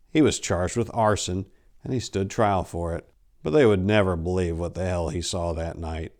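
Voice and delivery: steady dark storytelling read; story narration. A narrator's reading. Narrator reading a horror story to listeners, dark and steady.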